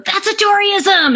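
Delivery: high, slow exclaiming mimic of an assistant; imitating assistant. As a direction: crow it like catching a quote. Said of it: "former assistant who'd go".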